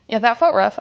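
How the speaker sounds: breathless after a hard set; panting between words; out of breath. Real, not acted. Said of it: "a little out of breath".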